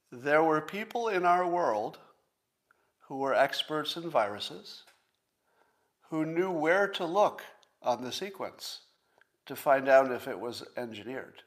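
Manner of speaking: slow and deliberate, pausing between phrases; spelled out word by word for emphasis; slowly. Shown as a demonstration. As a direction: lay it out slowly so it sinks in. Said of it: "say it again slowly".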